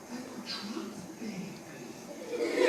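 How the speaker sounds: slow whisper with a laugh; nervous whisper. Acted. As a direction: whisper the fear with a giggle. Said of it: "sometimes I'm nervous".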